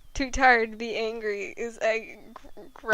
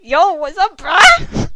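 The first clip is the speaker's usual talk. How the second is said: much higher, louder hammed-up dude voice; cool dude greeting; 7 semitones higher, 14 dB louder than usual. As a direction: bust in like an over-the-top cool guy. Fresh appears at the door.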